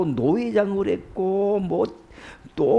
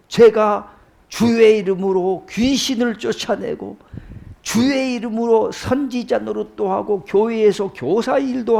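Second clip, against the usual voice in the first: mildly argumentative appeal, pitch a little raised; pleading protest; 3 semitones higher than usual. Acted. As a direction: plead your case, lightly acting out indignation. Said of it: "하소연하고 따지고 대들고 하는 장면". (하소연하며 따지는 말투)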